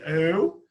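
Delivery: "Eu" with a strong "e" and a weak "u"; diphthong demo. Shown as a demonstration. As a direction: stress the "e" in "Eu". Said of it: "apareceu mais do que o u". ("Eu" com o "e" forte)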